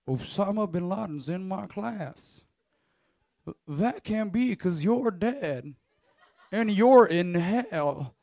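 slow, drawn-out professor voice; professor impression. Pastor quoting his professor to the youth group, slow and solemn with a laugh at the end. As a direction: spell out each word like the old professor. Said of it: "And he looks".

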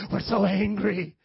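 slow, drawn-out pretend anger; badly faked rage; half-hearted mock anger. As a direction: fake an angry congregation, half-heartedly. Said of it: "I can't even do it".

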